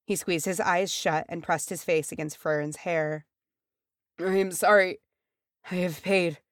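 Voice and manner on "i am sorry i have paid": anguished apology. A narrator's reading. Dying man apologises in anguish.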